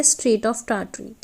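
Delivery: Strait of Tartary stretched syllable by syllable; very slow, careful naming; slow dictation. Shown as a demonstration. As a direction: spell it out slowly for the class. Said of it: "teacher dictates strait name slowly".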